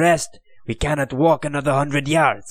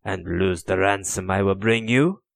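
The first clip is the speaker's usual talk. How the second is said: scornful taunt rising higher and louder; jeering; 5 semitones higher, 3 dB louder than usual. Acted. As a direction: spit contempt at the queen and her men. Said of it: "he jeered".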